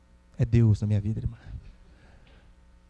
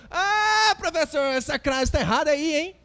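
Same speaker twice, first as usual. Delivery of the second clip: smug correction; 10 semitones higher, slower than usual. Retold or imitated. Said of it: "ou você lembra de todas as coisas certas".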